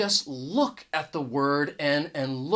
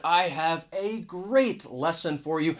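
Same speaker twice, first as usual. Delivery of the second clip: "a" as full AY before "great"; emphasize "a great lesson", saying "a" as "ay"; emphatic article. Shown as a demonstration. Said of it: "I even used this pronunciation".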